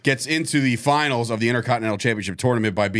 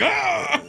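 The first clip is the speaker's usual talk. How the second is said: mock cry. Mimicking wrestlers' wary reaction.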